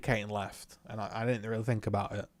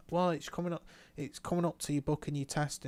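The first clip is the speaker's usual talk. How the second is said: instructor impression; 4 semitones higher, 3 dB quieter than usual. Instructor's excuse, quoted in put-on voice.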